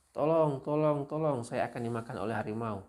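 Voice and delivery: high mock shout, easing toward the end; berteriak minta tolong. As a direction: act out a farmer's fake tiger alarm. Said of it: "dia berteriak". (seruan pura-pura minta tolong, nadanya tinggi)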